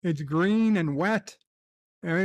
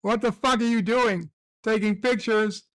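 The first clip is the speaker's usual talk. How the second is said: mocking rant; 4 semitones higher than usual. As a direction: tear into him like a scornful forum crowd. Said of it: "They're like".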